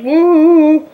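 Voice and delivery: high, loud whoop; cheer. Retold or imitated. Cheering for Cord as he speaks, a high loud whoop. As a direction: whoop like a fan in the stands.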